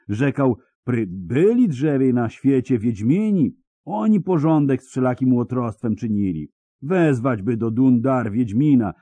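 high, rustic peasant voice full of dread; a scared villager pouring out his news; frightened peasant. Acted. Peasant to hermit about the Dundar bandits, high and fearful.

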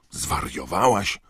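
high, drawn-out outrage; Ron, indignant. A narrator's reading. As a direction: protest in indignant disbelief. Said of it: "oburzył się Ron".

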